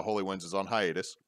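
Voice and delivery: talking through hiccups; hiccuping between words. Real, not acted. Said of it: "Sorry, I got the hiccups".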